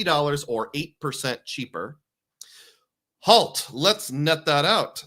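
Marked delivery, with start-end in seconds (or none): 3.2-5.0 lightly put-on British accent, slow and a bit loud; a hint of a slow British accent. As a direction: mimic a stiff British AI narrator. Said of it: "says my A I generated British guy".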